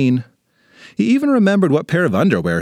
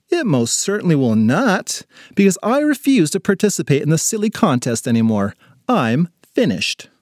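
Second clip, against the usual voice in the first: lightly voiced fed-up schoolgirl; indignant girl, refusing; 3 semitones higher than usual. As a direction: refuse firmly, drawing out the final words.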